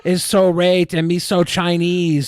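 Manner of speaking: slow, clumsy fake Chinese accent; mock Chinese accent. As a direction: deliver it as a bad imitation. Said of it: "He's trying to do a Chinese accent".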